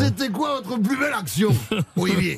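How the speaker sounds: a sung-out mock southwest French accent. Host asks the actor's best play in a mock southwest accent. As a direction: chant the question like a southwest rugby reporter. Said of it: "je vais la faire avec l'accent".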